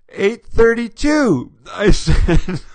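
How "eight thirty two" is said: disbelieving, slow and laughing; incredulous repeat. Real, not acted. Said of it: "This kills me".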